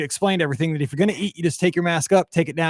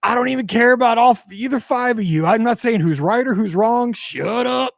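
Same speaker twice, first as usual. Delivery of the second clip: higher, a touch slowed, fed-up scolding; mock exasperated rant; 5 semitones higher than usual. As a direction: tell both rows off through clenched patience. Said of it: "I was about ready to be like".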